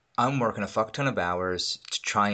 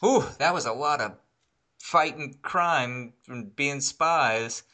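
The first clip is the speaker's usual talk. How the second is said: a hint of a gushing movie kid, slightly higher; mocking kids in a McDonald's movie break, mildly chirpy; mock kid actors; 4 semitones higher than usual. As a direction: lightly play cheesy kids in a product placement. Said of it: "the kids are like".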